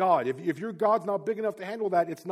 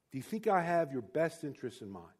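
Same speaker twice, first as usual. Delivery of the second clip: soft fatherly question; 4 semitones lower, 7 dB quieter than usual. Retold or imitated. Father asks son softly.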